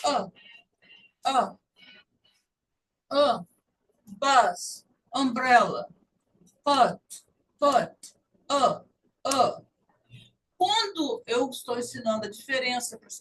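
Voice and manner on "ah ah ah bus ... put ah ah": "Ah" with relaxed mouth and tongue, then bus, umbrella, put; relaxed vowel drill; relaxed short u. Shown as a demonstration. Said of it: "língua descansada na boca e fala".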